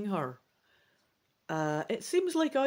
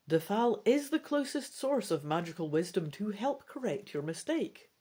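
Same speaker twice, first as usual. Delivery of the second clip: animated read-aloud storytelling; story narration. A narrator's reading. Reads gamebook narration aloud.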